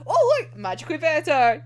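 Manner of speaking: playfully gushing mock delight. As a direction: sell the fake magic fix with glee. Mock cheerful fix-it quote.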